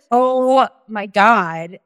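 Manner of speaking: long drawn-out, slow exclamation; retold dismay. Retelling the tearful Denny's scene, drawn-out dismay. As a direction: stretch it out in mock dismay.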